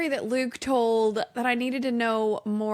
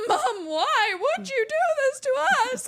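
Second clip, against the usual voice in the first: put-on kid's voice; 13 semitones higher than usual. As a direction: plead like a betrayed child. Kids in tears, voiced.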